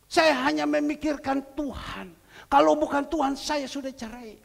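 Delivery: loud, high-pitched preacher's testimony; impassioned preaching. Acted.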